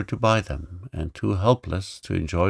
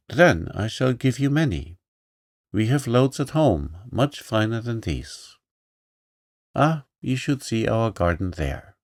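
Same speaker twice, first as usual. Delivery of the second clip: put-on little girl voice; 3 semitones higher than usual. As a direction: boast kindly like a rich child.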